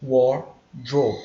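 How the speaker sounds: wardrobe with a strong pulled R; teacher models wardrobe with a firm English R. Shown as a demonstration. Teacher shows students how to say it, strong R. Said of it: "aqui a gente pronuncia".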